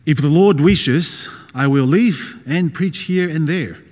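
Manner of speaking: slow, emphatic reading of a verse; measured, declarative Bible quote; scripture reading. Real, not acted. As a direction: deliver the verse slowly and firmly. Reads Bible verse aloud deliberately.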